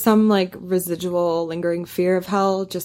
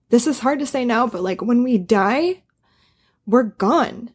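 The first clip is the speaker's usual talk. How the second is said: choked up; 2 semitones higher than usual. Real, not acted. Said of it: "sorry, I'm crying".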